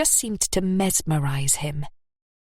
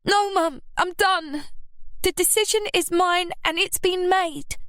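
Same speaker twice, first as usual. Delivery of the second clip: put-on high, resolute young voice; firm decision; 12 semitones higher than usual. A narrator's reading. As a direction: shut it down for good. Scarlett decides.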